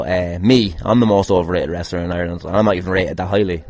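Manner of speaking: usual speaking voice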